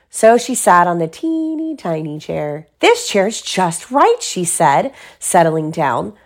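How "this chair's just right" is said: higher, drawn-out contentment; satisfied little girl, lingering on it; pleased Goldilocks. Acted. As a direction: settle in with slow, raised pitch. Goldilocks finds right chair.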